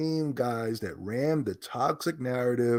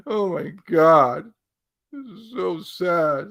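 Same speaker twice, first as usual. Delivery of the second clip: laughing; 6 semitones higher, 4 dB louder, slower than usual. Real, not acted. Laughing at tweet.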